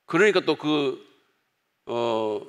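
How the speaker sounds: ordinary talk, nothing marked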